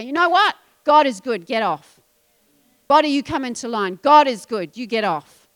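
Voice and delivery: loud, firm faith declaration; bold declaration. Acted. Preacher showing the congregation how to rebuke doubt, loud and firm. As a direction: command your doubts to get off, loudly.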